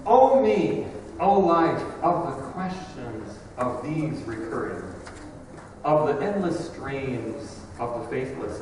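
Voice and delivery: measured, dramatic poetry reading with long pauses between phrases; poem recitation. Acted. Preacher quoting Whitman's poem to the congregation, dramatic recitation. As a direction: recite it like solemn verse, phrase by phrase. Let me quote it for you.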